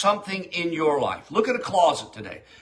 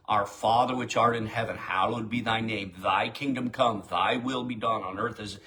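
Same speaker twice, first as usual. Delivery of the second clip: quoting the Lord's prayer; 6 semitones lower than usual. Shown as a demonstration. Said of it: "start quoting that".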